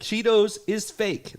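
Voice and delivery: high, drawn-out exasperated complaint; indignant rant. Real, not acted. Ranting that Cheetos ads are faking, indignant.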